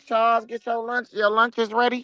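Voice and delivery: high called-out lunch call; yelling across the room. Retold or imitated. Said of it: "that dude that be like".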